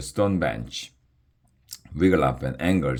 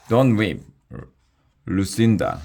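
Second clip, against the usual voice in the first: lightly voiced, higher and louder dragon; dragon sister; 4 semitones higher, 4 dB louder than usual. A narrator's reading. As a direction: urge the weeping sister to stop. Comforting tearful sister.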